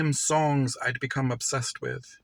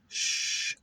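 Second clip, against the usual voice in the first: an unvoiced hush to settle her; whispered shush. Shushing the jumping pit bull, whispered.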